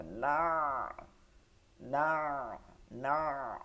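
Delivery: না with the ayn settling like mud; long না closing in a throaty ayn; deep ayn. Shown as a demonstration. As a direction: press the end of না down into mid-throat. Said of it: "বসে যাবে কাদার মতন".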